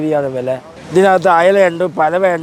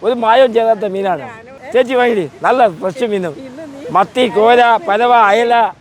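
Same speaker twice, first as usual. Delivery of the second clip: sharp piercing fish seller; 3 semitones higher than usual. Real, not acted. Fish seller calling to buyers.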